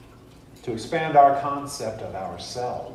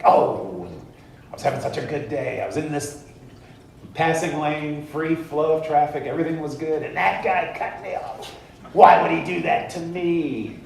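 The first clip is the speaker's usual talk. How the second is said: whining about being wronged, higher; hammed-up self-pity, pitched up; mock victim whine; 5 semitones higher, 3 dB louder than usual. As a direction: complain like a wronged driver. Whiny driver cut off.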